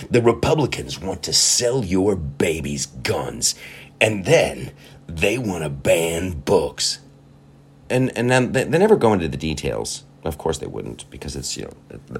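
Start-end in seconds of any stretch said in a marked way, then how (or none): 0.1-7.0 mock ad voice. Mocking the midterm ads.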